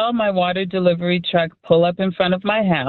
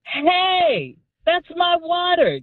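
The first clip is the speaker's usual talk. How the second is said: high, called-out "Hey, that's my water"; cried out; 10 semitones higher, much slower than usual. Retold or imitated. Woman calling after a thief stealing her water, high shout. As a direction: call out after the thief down the street. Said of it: "I cried out".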